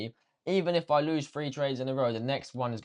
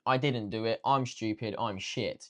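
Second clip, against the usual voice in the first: owning it flatly; 3 dB quieter than usual. Shown as a demonstration. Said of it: "Say you didn't".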